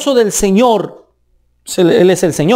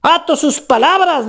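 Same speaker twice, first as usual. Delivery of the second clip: scolding legalist; 4 semitones higher than usual. Retold or imitated. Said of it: "le dicen a uno".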